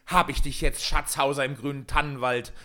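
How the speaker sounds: heated, high-pitched shout. A narrator's reading. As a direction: cry out your demand, building in force. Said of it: "fasste er das Männlein unsanft am Kragen und schrie".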